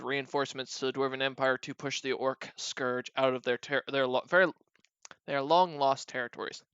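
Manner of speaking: tripping over words, head racing ahead; words stumbling from too much coffee; too much caffeine. Real, not acted. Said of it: "my head's going faster than my mouth is".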